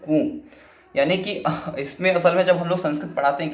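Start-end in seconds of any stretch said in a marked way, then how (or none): 0.1-0.4 rooster crow. Shown as a demonstration. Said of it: "तो आपको सुनाई देगा कि".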